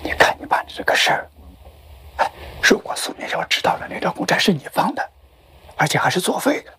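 half-whispered reproach, barely voiced; hushed scolding. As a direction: keep the telling-off under your breath. Husband scolds wife late, hushed. (压低声音责备)

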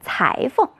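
裁缝 as cáifeng, with 缝 light and toneless; neutral tone. Shown as a demonstration. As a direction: stress 裁, let 缝 fall short and unstressed. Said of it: "在裁缝这个词语当中要读轻声". (裁缝的缝读轻声，轻而短)

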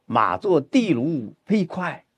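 slow reading, 地卢 weighted over 飞快; slow model line; stress on 地卢. Shown as a demonstration. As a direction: press 地卢, let 飞快 follow. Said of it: "应该是放在地卢上".

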